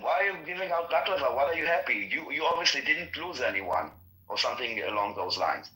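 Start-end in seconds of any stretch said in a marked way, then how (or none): 0.0-3.9 mild retold yell, pitched up; retold shouting. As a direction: imitate her indignant shout at talking volume. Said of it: "she was shouting at them".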